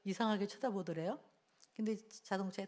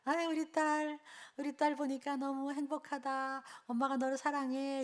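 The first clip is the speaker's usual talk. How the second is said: beaming mother; 4 semitones higher than usual. Retold or imitated. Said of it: "확 웃으면서".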